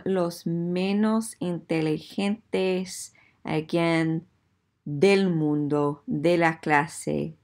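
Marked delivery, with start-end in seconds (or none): none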